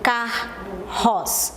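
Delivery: "Carros" pulled apart as car... ros; drawn-out teaching demo of "Carros" in two beats; slow syllables. Shown as a demonstration. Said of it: "devagarinho pra eu saber quantas sílabas".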